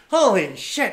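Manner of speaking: loud, high exclamation; acting out a boss's amazement; retold astonishment. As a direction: react stunned to a pile of cash. Retells boss astonished at takings.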